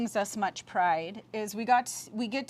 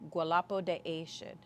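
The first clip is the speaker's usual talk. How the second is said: ceremonial call; 2 semitones lower, 3 dB quieter than usual. Retold or imitated. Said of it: "they say".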